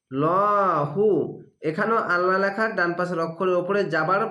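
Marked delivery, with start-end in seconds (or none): 0.1-1.1 লহু read with a full, heavy লা; heavy lam recitation. Shown as a demonstration. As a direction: recite লহু with a thick, rounded লাম. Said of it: "আল্লাহ লেখাটি মোটা করা হবে". (মোটা করে লহু পড়া)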